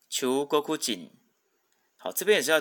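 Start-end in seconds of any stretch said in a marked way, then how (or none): 0.1-1.1 slow Japanese 中国人, chuugo-KU-jin, accented on ku; teacher's drawn-out model of 中国人 as "chuugoKUjin". Shown as a demonstration. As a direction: stress the ku when reading 中国人 as Chuugokujin. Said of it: "它的重音是在哭上面".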